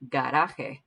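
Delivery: "garaje" with the J like an H; teacher models "garaje" for repetition; Spanish pronunciation. Shown as a demonstration. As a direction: model "garaje" for students, J breathed like an H. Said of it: "So repeat this one".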